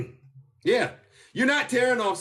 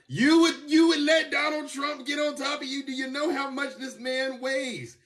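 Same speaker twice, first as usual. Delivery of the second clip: incredulous; 4 semitones higher than usual. Real, not acted. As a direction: shout it in disbelief. Mock disbelief at a commenter.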